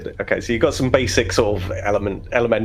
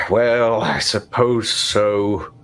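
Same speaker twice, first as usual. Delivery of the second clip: a hint of a pompous overseer; overseer father. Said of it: "He goes".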